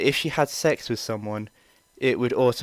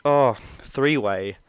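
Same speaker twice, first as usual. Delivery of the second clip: playful joking; slower than usual. Retold or imitated. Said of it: "just a bit of playful joking".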